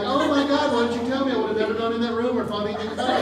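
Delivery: fast, laughing surprise at the wife's secret; mock astonishment. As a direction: act out the stunned discovery. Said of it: "I'm like".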